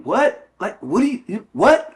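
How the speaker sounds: sharp, loud, high rising "What?"; macho bark. Retold or imitated. Man answering with macho bravado, loud high challenge. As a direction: snap back like a man who won't show weakness.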